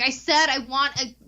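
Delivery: high, slow, over-enunciated order; retold exasperated order. Guest re-enacts ordering through open door, mock exasperated. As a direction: call it out to someone who can't hear.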